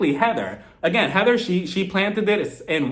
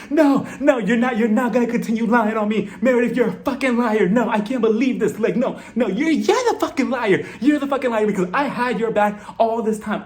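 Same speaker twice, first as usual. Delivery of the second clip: mock-furious rant, pitched up; imitated angry outburst; 4 semitones higher than usual. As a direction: act out an indignant accusation with mild heat. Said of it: "like a bat out of hell".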